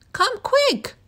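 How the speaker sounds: high, loud urgent call; yelled. A narrator's reading. Zookeeper yelling to a colleague, high and loud. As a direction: shout for help across the zoo. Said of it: "she yelled".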